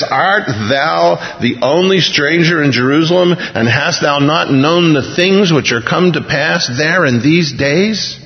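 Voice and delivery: slow, measured scripture reading; King James reading. Retold or imitated. Preacher reads Cleopas's reply slowly, solemn scripture voice. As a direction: read the old words slowly and solemnly. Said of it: "answering says".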